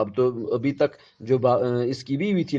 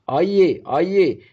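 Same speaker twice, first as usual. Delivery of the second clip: calling out, fading; 6 semitones higher, 5 dB louder than usual. Acted. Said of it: "اس کی آواز مدھم ہو جاتی ہے".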